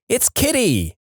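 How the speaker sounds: high-pitched cry of alarm, held in volume; understated shout, pitched well up; mild narrated shout. A narrator's reading. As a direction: call it out high, without full volume. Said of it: "jumped out of bed shouting".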